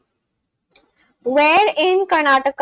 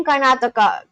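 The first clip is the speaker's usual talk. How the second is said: Karnataka in a Spanish accent; Spanish-style t in Karnataka. Real, not acted. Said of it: "calling out Karnataka as Karnataka".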